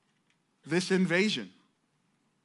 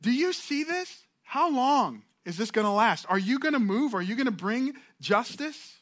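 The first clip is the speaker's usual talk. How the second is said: crying out to God; 6 semitones higher than usual. Acted. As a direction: lift the voice and cry out to heaven. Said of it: "he cries out to the Lord".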